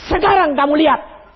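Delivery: God telling Moses, high and firm; God's firm word. Retold or imitated. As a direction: declare it firmly. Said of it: "Tuhan bilang".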